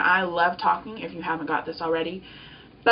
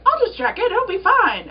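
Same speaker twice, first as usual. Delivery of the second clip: very high, louder sing-out; airy self-talk; 12 semitones higher, 5 dB louder than usual. Retold or imitated. Talking herself into checking the offer, high mock-casual voice.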